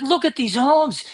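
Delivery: put-on wowed tourist quote, without a set accent; imitated awestruck kid. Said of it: "He's like".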